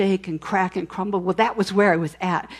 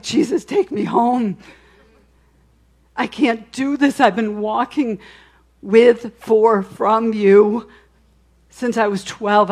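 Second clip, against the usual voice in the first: mild mock wail, louder on with, for, from you; retold wailing; 4 dB louder than usual. Wife in the truck crying out to Jesus, a touch of wailing. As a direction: cry out to Jesus in half-hearted despair. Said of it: "and I am wailing".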